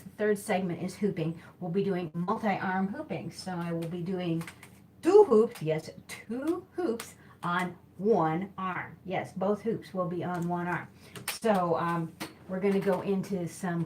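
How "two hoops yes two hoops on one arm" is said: excited announcement. Real, not acted. Announcing hoop trick.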